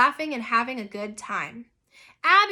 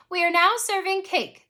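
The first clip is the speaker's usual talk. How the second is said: higher, louder proclamation; raised-pitch announcement of cake; twins' announcement; 7 semitones higher, 4 dB louder than usual. A narrator's reading. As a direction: announce it brightly to the whole party. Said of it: "the twins announced in unison".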